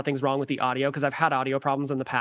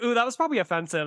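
squeaky falsetto mockery; 7 semitones higher than usual. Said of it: "and I was like".

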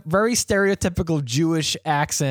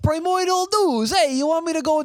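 much higher, hammed-up New York accent; a cartoonish New York deli guy, pitched way up; mock New York accent; 13 semitones higher than usual. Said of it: "very stereotypical New York Jew accent".

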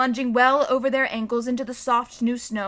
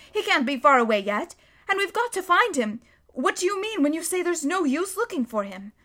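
lightly voiced anxious girl, higher; Susan pleading; 6 semitones higher, 3 dB louder than usual. A narrator's reading. Susan urging the Beavers to search, anxious. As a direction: press the others to go after him.

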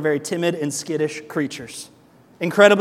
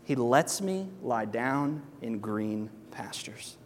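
whisper; 6 semitones lower, 9 dB quieter, slower than usual. Shown as a demonstration. Reading the psalm line hushed.

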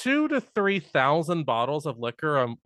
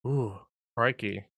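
low, slow Aussie exclamation; mock Australian accent; 5 semitones lower, 4 dB quieter, slower than usual. Reacting to learning the actor is Australian, mock Australian accent. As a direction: put on a playful Australian accent. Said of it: "Yeah, he's Australian".

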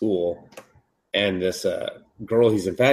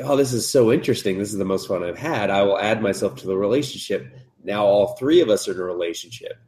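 quick excited chatter; faster than usual. Retold or imitated. Cupid voiced in recap.

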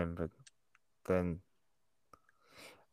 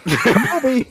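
high, loud shot call; calling out Kobe; 13 semitones higher, 8 dB louder than usual. Acted. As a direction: shout it like tossing a paper ball into the trash. Shot call while laughing.

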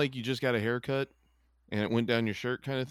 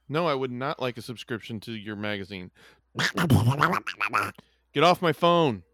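grumpy telemarketer reply. Pretend. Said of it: "I can't do Donald Duck".

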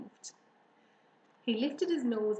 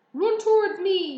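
high, forceful gander yell; 10 semitones higher, 12 dB louder than usual. A narrator's reading. Gander directing the fleeing pig, yelling. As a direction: yell the instruction across the yard. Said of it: "yelled the gander".

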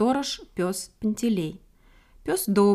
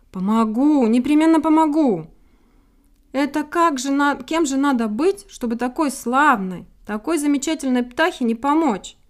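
hearty raised-voice promise of help; higher, emphatic comforting; reassuring; 6 semitones higher, 6 dB louder than usual. A narrator's reading. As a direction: reassure the little bird with loud conviction. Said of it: "успокоил её Пантелей".

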